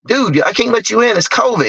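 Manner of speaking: high, urgent protest through the door; half-acted panic at the door; retold alarm. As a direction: pitch jumps up in alarm.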